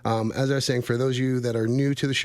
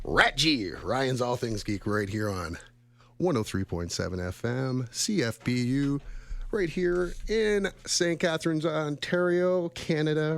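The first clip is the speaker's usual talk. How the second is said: radio show opening; 4 dB quieter than usual. Real, not acted. Host opens Ryan's All Things Geek, radio intro voice. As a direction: welcome listeners back with stretched-out host delivery.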